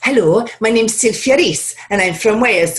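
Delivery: lilting Welsh introduction, pitched a little up; demonstrated Welsh accent, sing-song hello. Shown as a demonstration. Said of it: "my spark for my Welsh accent would".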